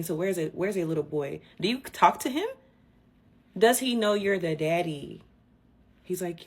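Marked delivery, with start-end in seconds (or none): 1.6-5.2 incredulous. Real, not acted. Incredulous question.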